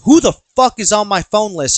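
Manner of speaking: retold gruff demand. Uncle on his first prison phone call, mock gruff demand. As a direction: imitate an irritated inmate barking the question.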